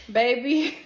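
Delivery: exclaimed. Real, not acted. Exclaiming as the news hits.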